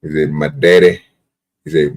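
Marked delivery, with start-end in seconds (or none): 0.3-1.0 Forrest Gump voice. Retold or imitated. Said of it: "You gotta hold it".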